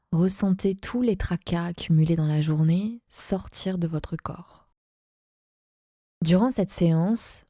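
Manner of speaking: measured yoga nidra guidance with long pauses; guided meditation. Acted. Yoga teacher guiding listeners lying in Shavasana into relaxation, guided meditation voice. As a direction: lead them unhurriedly, pausing between phrases.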